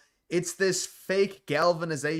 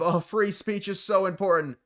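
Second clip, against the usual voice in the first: put-on earnestness, pitched up; higher, showy fake concern; mock exhibition; 5 semitones higher than usual. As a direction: mockingly overplay how much you care. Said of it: "the exhibition of".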